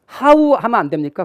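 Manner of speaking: lightly imitating an insistent questioner; 따지는 질문자 흉내. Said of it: "이렇게 묻는 분이 있어요". (살짝 목소리를 높여 따져 묻는 수강생 흉내)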